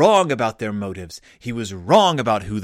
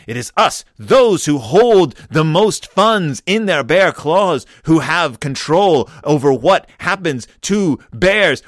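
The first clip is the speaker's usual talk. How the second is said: sneering panto villain; 4 dB louder than usual. Pretend. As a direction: lord it over father like a pantomime baddie. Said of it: "Do they say to their father".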